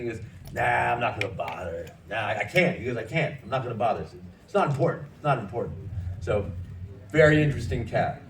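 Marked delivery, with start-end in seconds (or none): 0.5-2.8 imitating a stubborn brush-off; dismissive refusal. Retold refusal by Jack. 3.0-5.8 imitating a quick, stubborn brush-off; dismissive refusal. Retold refusal by Jack.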